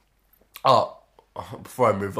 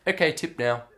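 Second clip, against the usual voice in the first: lightly imitated masseuse, higher pitch; masseuse demanding tip; 6 semitones higher than usual. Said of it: "And she's like".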